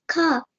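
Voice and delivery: CAR as "cah", R left silent; British pronunciation. Shown as a demonstration. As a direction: end "car" on an open British vowel. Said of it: "because in ours it's car".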